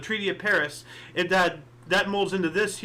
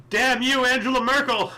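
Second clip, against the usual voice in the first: mock angry outburst; 6 semitones higher, 4 dB louder than usual. Mock cursing a politician.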